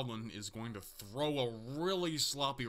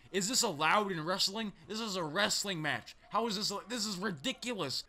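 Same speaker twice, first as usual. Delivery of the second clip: outraged disbelief; 5 semitones higher than usual. Real, not acted. Outraged at illegal choking.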